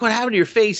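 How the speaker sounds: high surprised sister voice; mock little sister. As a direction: ask it like a nosy little sister.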